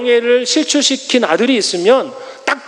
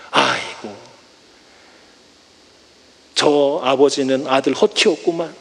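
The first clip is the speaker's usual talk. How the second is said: tutting villager; 7 semitones lower, 3 dB quieter than usual. Acted. Villager clucking over father.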